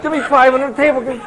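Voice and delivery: high, loud, laughing through the words; imitating friends gloating over a high five; gleeful laughing quote. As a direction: cackle like you just won the bet. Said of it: "I can see these guys going".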